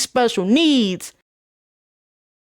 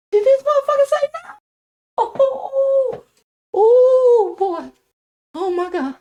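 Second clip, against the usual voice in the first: high, strained squeal of disbelief; hammed-up incredulity, pitched way up; mock outraged disbelief. Student reacting to Simon's refusal, comically incredulous.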